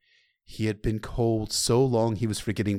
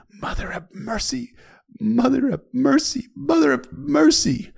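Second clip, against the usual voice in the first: desperate prayer; 8 dB louder than usual. Acted. Prayer repeated with each step.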